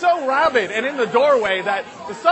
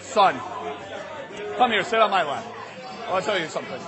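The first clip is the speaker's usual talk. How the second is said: lower, gentle fatherly coaxing; acted dad, soft and reassuring; tender father; 7 semitones lower, 5 dB quieter, faster than usual. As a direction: invite your son in for a quiet talk. Father gently coaxing his son.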